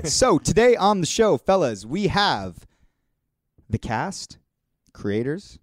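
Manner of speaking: slow, drawn-out show announcement; stretched-out presenter delivery; podcast host intro. Acted. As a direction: announce the line-up with dramatic pauses. Host introduces today's guests.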